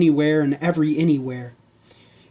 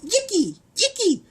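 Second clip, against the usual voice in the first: very high urgent cry; bellowed. Acted. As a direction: spur the pig on. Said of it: "Steve bellowed through his zippers".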